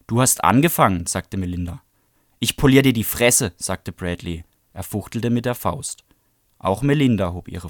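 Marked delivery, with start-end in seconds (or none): 0.1-1.1 louder, sharp accusation; retort. Acted. Melinda blaming Bradley during the fight, sharp and loud. 2.4-3.5 louder, higher menacing threat. Acted. Bradley shaking his fist at Melinda, loud threat.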